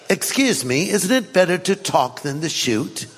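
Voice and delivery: put-on a light, half-hearted British accent for the talking bear. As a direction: play the bear with a mild British accent, amused. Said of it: "it was a bear with a British accent".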